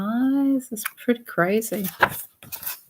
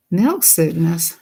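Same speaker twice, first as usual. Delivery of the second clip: "Milk sickness?" asked slowly with rising doubt; puzzled by an unknown word; puzzled question. Real, not acted. Reacting to the book's strange phrase, puzzled. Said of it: "I never heard of milk sickness".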